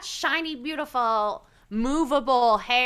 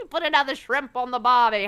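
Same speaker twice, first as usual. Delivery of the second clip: hammed-up fake Australian twang; bad Australian accent; 2 semitones lower, 3 dB louder than usual. Teasing an Australian friend, badly faked Australian accent. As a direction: try an Australian accent and miss. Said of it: "worst Australian accent".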